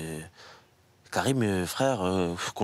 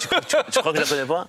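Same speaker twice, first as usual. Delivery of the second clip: laughing; 4 semitones higher, 4 dB louder than usual. Real, not acted. Teasing about last-minute video.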